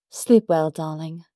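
lightly put-on British voice for Peggy; vaguely British accent. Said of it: "I can do one vaguely British accent".

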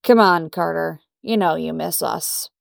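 lightly voiced condescending boss, drawling the words; a hint of a smug boss teasing Carter; Thompson's condescending drawl. Angie mocking the chief to Peggy, mild condescending drawl. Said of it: "uncanny impersonation of acting Chief Thompson's condescending drawl".

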